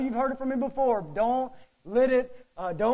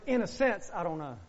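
"I don't know" said much softer and lower, almost hushed; soft, lower admission; 8 semitones lower, 9 dB quieter than usual. Shown as a demonstration. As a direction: drop the voice and admit it quietly. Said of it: "Now let me say it like this".

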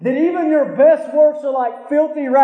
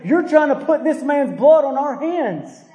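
rulers' indignant complaint, lightly voiced; a hint of indignant protest; complaining rulers; 2 semitones higher than usual. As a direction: toss it out like an offended official. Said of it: "they complain about the apostles and say".

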